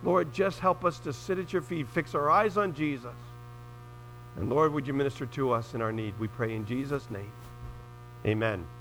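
earnest spoken prayer to God. Real, not acted. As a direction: pray sincerely for the congregation. Opening prayer before the sermon.

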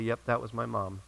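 put-on low, soft, offhand retelling of a child; understated, matter-of-fact little reply. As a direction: state it quietly as simple fact. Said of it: "Matter-of-factly".

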